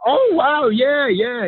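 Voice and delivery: oh wow, suddenly thrilled; excited. Retold or imitated. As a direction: retell a starstruck reaction on the phone. Thrilled reply to a surprise phone call.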